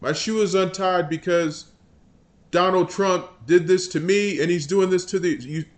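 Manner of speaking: whiny mock blame; lightly mock a congressman blaming Trump; a hint of a petulant politician; mock Jeffries. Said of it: "That's how he sounds".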